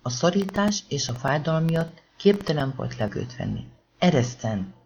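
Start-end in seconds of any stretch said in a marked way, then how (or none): 4.0-4.7 kissé hangosabb, kétségbeesett kiáltás; kiabálás. Acted. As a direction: szabadulni akar, rákiált. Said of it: "kiabálta Nathan". (Nathan a szorításból kiabál, enyhe, visszafogott kiáltással)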